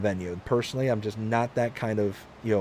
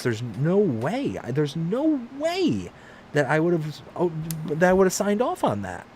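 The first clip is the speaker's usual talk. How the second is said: disbelieving denial; 6 semitones higher than usual. Retold or imitated. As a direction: stretch it out in high disbelief. Retelling his own disbelief.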